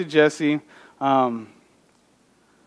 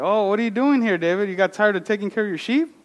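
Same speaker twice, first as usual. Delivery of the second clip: higher, fast, teasing big-brother voice; mocking older brothers; 5 semitones higher, faster than usual. Older brothers taunt young David, teasing and fast. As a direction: brothers mock David for showing up. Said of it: "the older brothers look at David like".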